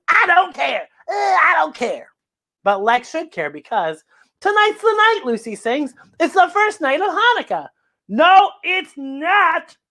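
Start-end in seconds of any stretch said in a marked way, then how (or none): 0.1-2.1 put-on bored teen. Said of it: "And he says". 8.1-9.8 grumpy grandpa. Acted. Grandpa contradicting Lucy.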